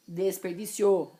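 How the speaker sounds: desperdício with des; plain desperdício; correct form. Shown as a demonstration. Teacher repeating the right form. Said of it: "escritas com E".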